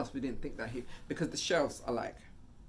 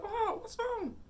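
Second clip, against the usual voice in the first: alarmed asking; much slower than usual. Retold or imitated. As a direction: demand what's wrong, scared. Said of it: "I'm like".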